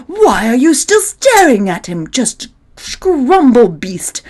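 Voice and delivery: put-on loud, frantic kids' yelling; shouting. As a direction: yell in a panic. Kids yelling at the beast.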